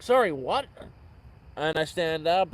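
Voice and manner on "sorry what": confused. Retold or imitated. Confused reply to stranger.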